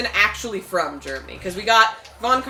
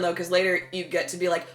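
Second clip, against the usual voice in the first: ordinary talk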